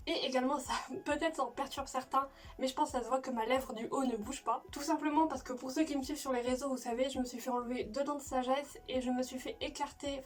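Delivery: lisping from swollen mouth; slushy sh for s. Real, not acted. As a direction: talk with a numb upper lip. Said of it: "je dois zozoter un max".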